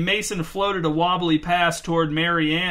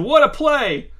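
higher praise, cheering; excited shout; 9 semitones higher, 4 dB louder, slower than usual. A narrator's reading. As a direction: marvel at the play out loud. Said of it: "shouted Mason".

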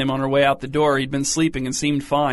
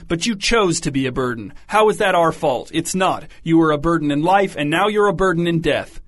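bitter tirade; 3 semitones higher than usual. Acted. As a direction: pour out years of resentment at him. Mother berates dead son.

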